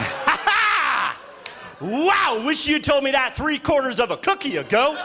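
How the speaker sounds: high, strained mock delight; panicked fake laughter. Comic learning he overdosed on edibles, panicked cheer.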